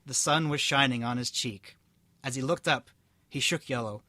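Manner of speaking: steady storybook reading voice; story narration. A narrator's reading. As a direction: read it out like a tale. Reads story aloud.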